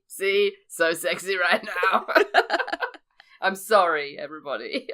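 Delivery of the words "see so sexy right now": husky, laughing croak; rough sick voice, showing it off; croaky voice. Real, not acted.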